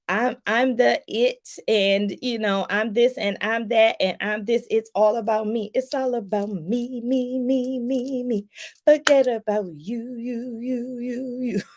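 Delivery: a hammed-up self-centred star, sing-song on the me me; lightly imitating a vain celebrity; mock celebrity bragging. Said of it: "like the celebrities, like".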